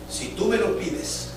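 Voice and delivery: hushed, slow whisper. Retold or imitated. God to the pastor, a slow whisper. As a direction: breathe it softly and slowly.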